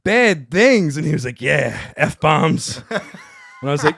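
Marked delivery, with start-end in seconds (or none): 0.0-1.0 loud, high, incredulous repeat; acted shock, voice jumping up; alarmed echo. Alarmed echo of the runner's answer. 1.4-2.8 emphatic imitated confirmation, loud; acted messenger spelling it out; confirming reply. Runner confirms, then is echoed.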